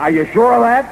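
high startled question, rising at the end; alarmed question. Acted. Boss suddenly alarmed by the skipper's salvage news, high startled question.

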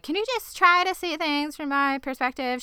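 high-pitched mock plea; imitated character pleading. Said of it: "She doesn't sound like that".

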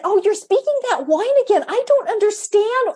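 playful mock-bewildered mom voice; mock puzzlement. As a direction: sweetly pretend not to understand. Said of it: "and I would say".

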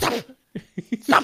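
short, abrupt imitation of a child's order; curt mock-German command; child's yell. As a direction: imitate a child yelling at a device. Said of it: "He just yells".

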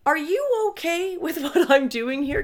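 high, laughing question; nervous laugh. Retold or imitated. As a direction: ask it through an awkward giggle. Nervously asking husband's permission.

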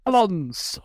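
high put-on woman's voice; hammed-up female impersonation, pitched well up; mock female voice. Co-host joking about a prediction in a different voice, mock female voice. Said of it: "cunningly in a female voice".

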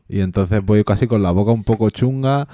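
talking with a sore swollen mouth; after wisdom teeth. Real, not acted. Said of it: "la segunda muela del juicio".

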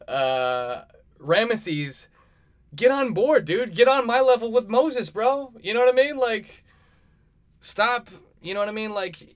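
high, loud bro rant; frat bro. Pretend. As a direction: lecture him like a fired-up bro. Bro lecturing Ramesses.

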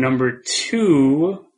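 slow drawn-out list announcer; countdown announcer. Acted. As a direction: build suspense on each number.

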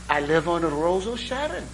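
lightly put-on Irish brogue at normal pitch; an understated Irish accent, close to own voice; mock Irish brogue. Irishman naming his street, lightly voiced Irish brogue. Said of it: "my Irish brogue sounds a lot like Jamaican".

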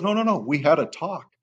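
high-pitched, earnest denial; retold protest. Handler insists he only had a talk with dog, protesting. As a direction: imitate someone insisting on his innocent version.

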